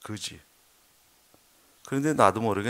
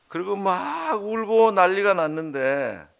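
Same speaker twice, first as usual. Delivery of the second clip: tearful retelling; 7 semitones higher, 4 dB louder, slower than usual. Retold or imitated. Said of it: "통곡하기 시작했어".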